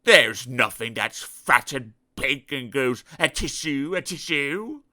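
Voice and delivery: slow, loud, unsure denial; worried pig. Acted. Pig insisting to Mister Dizzy, worried. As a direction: bluster through the doubt.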